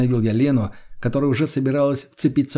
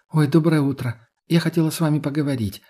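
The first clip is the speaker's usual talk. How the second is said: hesitant; 4 semitones higher than usual. Acted. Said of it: "начала она как-то неуверенно".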